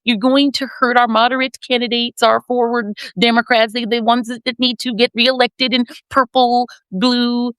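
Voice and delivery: mock pleading, words drawn out; begging. Imitating Democrats urging their party on the midterms, begging. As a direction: plead slowly, imitating anxious party insiders. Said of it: "So they're begging them".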